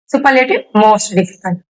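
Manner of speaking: very slow, syllable by syllable; teacher dictating most difficult slowly; slow and broken up. Shown as a demonstration. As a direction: lay each syllable out slowly for students. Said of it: "कई बार तोड़ना पड़ रहा है".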